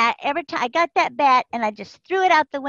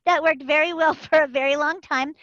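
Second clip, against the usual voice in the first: laughing through it; 4 dB louder than usual. Real, not acted. Laughing at her crying years.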